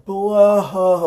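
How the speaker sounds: imitated big ugly sob burst; hammed-up sobbing noise; mock loud bawl. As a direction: act out breaking into a blubbering wail. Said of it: "loud sobbing".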